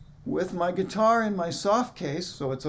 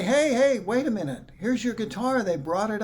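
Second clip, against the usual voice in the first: calling out; 4 semitones higher than usual. Retold or imitated. Flight attendants calling out.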